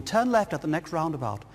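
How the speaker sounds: lightly voiced posh navigation lady; a hint of a well-spoken woman, measured delivery; posh satnav woman. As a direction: give directions as a posh satnav. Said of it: "this really posh woman".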